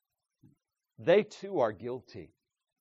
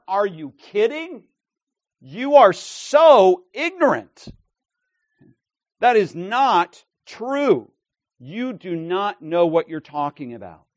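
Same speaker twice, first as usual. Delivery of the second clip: indignant exclamation; 4 semitones higher, 6 dB louder than usual. Acted. Jesus criticizing the ignorant crowd, indignant exclamation. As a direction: punch each phrase in outraged disbelief. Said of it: "an exclamation point".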